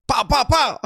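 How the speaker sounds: very high, loud pow-pow-pow; mock punch sounds. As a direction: parody cartoon punches in a squeaky-high pitch. Mocks the storyteller's punch sounds.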